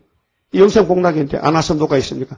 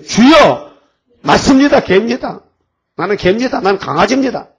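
higher, louder earnest confession; humble plea; 4 semitones higher, 4 dB louder than usual. Acted. Canaanite mother humbly confessing to Jesus, high and earnest. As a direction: beg humbly.

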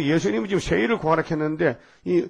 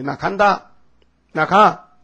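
a touch of Jesus walking out, louder on the last; mock departing Jesus; 2 semitones higher, 5 dB louder, much slower than usual. Jesus voiced leaving the corrupted church, louder final words. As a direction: say it like leaving for good.

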